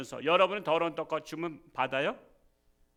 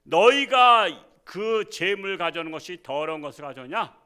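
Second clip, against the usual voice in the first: louder, stern divine rebuke; rebuking God; 2 semitones higher, 6 dB louder than usual. Retold or imitated. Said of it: "하나님께서 말씀하시잖아".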